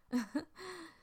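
short amused laugh. Acted. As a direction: laugh lightly to yourself. Amused laugh after teasing line.

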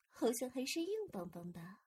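ordinary talk

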